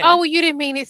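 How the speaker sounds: mock the excuse, loud and high; sarcastic mock. Friend mocking the lame excuse, sarcastic.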